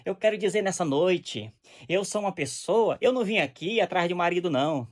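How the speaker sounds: a hint of a self-righteous preacher; mock preacher. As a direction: play a preacher using the altar to settle scores. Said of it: "você começa".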